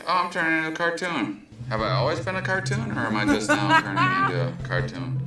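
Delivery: high, fast, giddy panic about turning cartoon; mock freaked-out cartoon voice. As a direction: squeal it out like you're melting into a cartoon. Trippy realization, acted quote.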